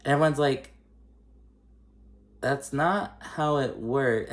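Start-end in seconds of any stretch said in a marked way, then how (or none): 2.4-4.3 deadpan disbelief. Retold or imitated. Everyone reacts to Sergio.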